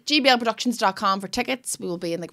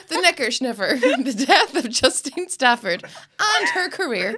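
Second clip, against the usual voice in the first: laughing; slower than usual. Real, not acted. Laughing while riffing on joke.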